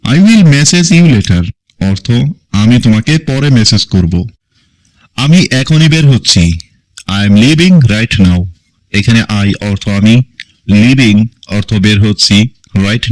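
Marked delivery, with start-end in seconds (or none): 0.0-1.4 slow model sentence. Shown as a demonstration. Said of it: "English model sentence, slowed". 7.2-8.4 slow model sentence. Shown as a demonstration. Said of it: "English model sentence, slowed".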